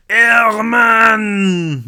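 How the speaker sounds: loud, high French cry of a name; heavy French accent. Acted. French baker greeting an old friend, loud French accent. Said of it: "in a heavy French accent".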